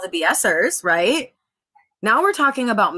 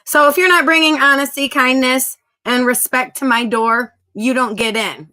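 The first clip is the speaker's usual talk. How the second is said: louder, rising with force; firm declaration; 3 semitones higher, 4 dB louder than usual. Real, not acted. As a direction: draw the line hard. Laying down the rule.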